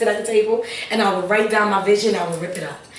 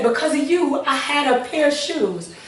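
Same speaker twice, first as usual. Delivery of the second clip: tearful; 5 semitones higher than usual. Real, not acted. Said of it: "and I still cry".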